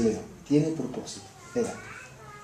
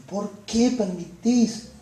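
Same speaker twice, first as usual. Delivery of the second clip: complaining to God; 4 semitones higher, 4 dB louder than usual. Acted. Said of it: "Cuántas veces nos decimos".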